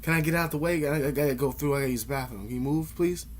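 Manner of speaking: courteous demo request; polite request. Shown as a demonstration. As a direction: ask nicely, modeling good manners. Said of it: "then you ask me politely".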